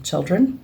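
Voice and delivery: put-on children with a rising question tune. Medium echoing the spirit's word to the sitter, asked as a question. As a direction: lift the end of children like asking. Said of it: "he poises it as like it's a question".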